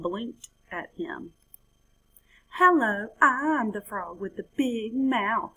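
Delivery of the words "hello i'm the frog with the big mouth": higher, bouncy frog greeting; happy hopping frog. Acted. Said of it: "the frog said with a happy hop".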